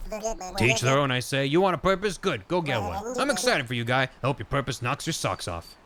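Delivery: lightly voiced, brisk game character; blunt supporter character. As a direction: cheer them on in punchy phrases.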